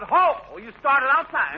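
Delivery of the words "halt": retold holler.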